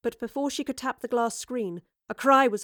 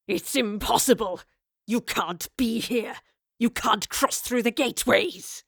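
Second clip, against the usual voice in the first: shocked. Acted. Raleigh shocked at Jane.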